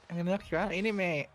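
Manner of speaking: echoing a mock Northern English lad; a hint of Northern English swagger; imitating Northern accent. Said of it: "I don't know what that accent was".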